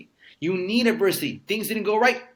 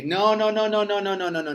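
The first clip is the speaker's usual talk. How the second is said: rising, louder run of emphatic noes; 5 semitones higher, 5 dB louder than usual. Retold or imitated. Refusing to let his mom die, rising loud noes. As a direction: shut the idea down hard, pitch climbing. Refusing the imagined high-stakes deal.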